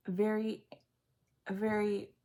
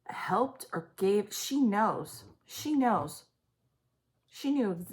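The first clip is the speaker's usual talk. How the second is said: slow breathy hush, unvoiced; whisper; 2 semitones higher, slower than usual. Real, not acted. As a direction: let it slip out as a slow secret. Psychic reading, hushed aside.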